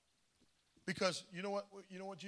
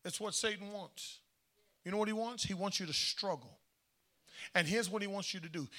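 hushed confiding; 9 dB quieter than usual. Real, not acted. Preacher to congregation, softly confiding about Satan. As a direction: lean in and say it softly.

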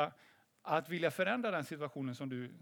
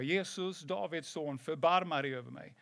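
mild retold call for mercy; understated cry to Jesus, imitating the beggar. Blind beggar calls to passing Jesus, restrained retold call. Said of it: "så började han ropa".

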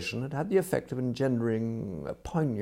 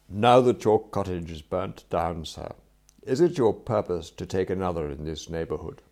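lightly voiced formal butler, carefully enunciated; deferential valet; 5 dB louder than usual. Valet asks his employer about a new cottage, deferential and formal. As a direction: put a polite, measured question. Voices Jeeves questioning Wooster.

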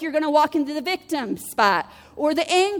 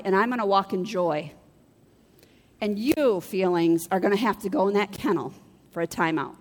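scolding her feelings; 6 semitones lower than usual. Pretend. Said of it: "And you need to say".

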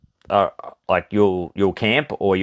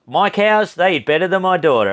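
daughter's mockery; 7 semitones higher than usual. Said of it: "her daughter's like".

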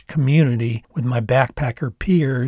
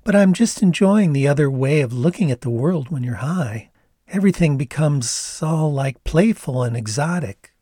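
put-on Canadian accent; 3 semitones higher than usual. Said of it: "tilting her head and grinning".

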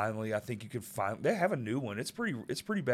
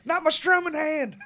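high-pitched hammed-up wail; mock anguish; 12 semitones higher, 4 dB louder than usual. Guitarist bitten by a pit bull, mock anguish. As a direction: cry it out high, playing wounded.

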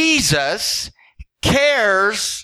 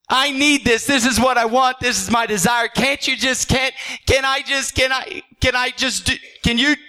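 higher, half-whining plea; pleading with God; 4 semitones higher than usual. Retold or imitated. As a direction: beg like you can't take no.

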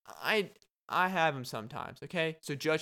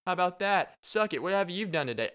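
gloating taunt; 3 semitones higher than usual. Retold or imitated. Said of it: "be like".

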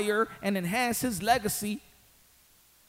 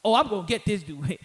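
normal talking voice

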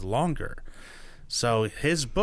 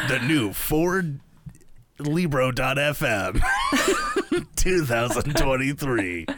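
truck commercial voice. Acted. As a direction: hype a pickup truck ad while laughing. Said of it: "make it feel like you're buying a truck".

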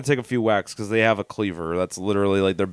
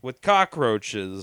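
slow ominous; 4 semitones lower, 4 dB quieter, much slower than usual. Pretend.

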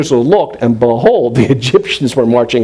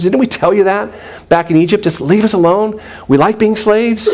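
higher-pitched mock complaint, building; Jewish sarcasm; 4 semitones higher than usual. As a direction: gripe sarcastically with rising, incredulous questions. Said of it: "the Jewish sarcasm here".

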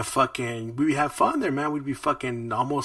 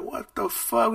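shocked; 10 semitones higher, slower than usual. Retold or imitated. Kid startled in locker room.

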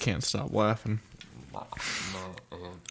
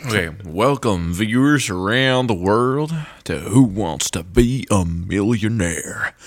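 game show host; 3 dB louder than usual. Pretend. Host introducing today's contestant to viewers, game show announcer voice. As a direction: welcome the world to a big quiz show.

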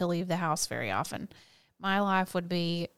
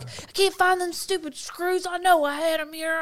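imitating his fuss; 10 semitones higher, 3 dB louder than usual. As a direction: grumble about lost screws. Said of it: "he'll be like".

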